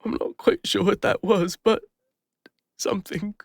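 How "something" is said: soft unvoiced whisper, trailing off. Healer confiding about Sage, in a whisper. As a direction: breathe the word out, barely there. Tender confession about a bond.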